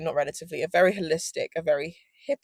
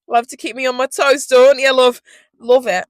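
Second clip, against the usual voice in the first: mock sweet; 6 semitones higher, 9 dB louder than usual. Real, not acted. Mock-affectionate sarcasm to abuser.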